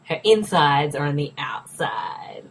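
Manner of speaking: slow, drawn-out movie line; mock-dramatic slow quote. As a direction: quote the line slowly, relishing each word. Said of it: "That was the quote from the movie".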